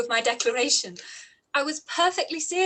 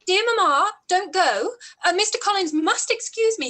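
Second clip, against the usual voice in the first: higher, louder, urgent plea; anxious pleading; 5 semitones higher, 5 dB louder than usual. Acted. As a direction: beg your mother not to leave you alone with him. Elizabeth begging mother to stay.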